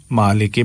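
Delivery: "مالک" as maa-lay-kay, unstretched; wrong ay vowel. Shown as a demonstration. Teacher quoting the common error, wrong ay vowel. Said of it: "غلط ہے".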